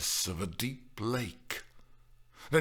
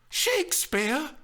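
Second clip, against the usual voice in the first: high, drawn-out rising question; slow, high-pitched incredulity; incredulous shout; 3 dB louder than usual. A narrator's reading. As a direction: echo it in utter disbelief. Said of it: "she shouted incredulously".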